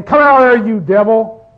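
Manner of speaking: a hint of a hammed-up deliverance preacher; mock exorcist.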